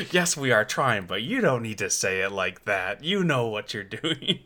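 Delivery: lightly voiced stand-up comic's protest; mock-indignant retort, a touch of comedian; John Mulaney. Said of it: "sounded a little like John Mulaney".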